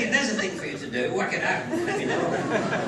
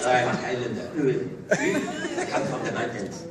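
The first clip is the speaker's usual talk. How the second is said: put-on low, slow French-accented hero; mock French accent; 9 semitones lower than usual. Film Highlander declaring his origins, in a mock French accent. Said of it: "I should be speaking in a French accent".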